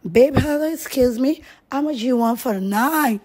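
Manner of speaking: lightly mimicked man propositioning her; imitating Lekki guy. Mocking Lekki guys to the interviewer, lightly imitated come-on. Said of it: "look at you and say".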